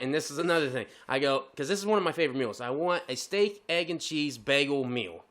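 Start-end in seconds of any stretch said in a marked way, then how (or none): 2.6-5.2 slow, deliberate drive-thru order; careful ordering. Retold or imitated. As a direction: spell out the order slowly and carefully. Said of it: "I make sure I say what I say".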